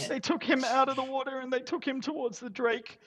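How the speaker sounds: high, tearful telling of the loss; grieving widow. Acted. Widow telling adventurers how her husband died, high and grieving. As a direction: let the widow's grief lift the voice.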